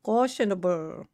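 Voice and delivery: playful Irish lilt on "Cautionable"; put-on Irish accent. Streamer playing with a word, Irish accent. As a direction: draw out "Cautionable" in mock Irish. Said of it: "turn that Irish".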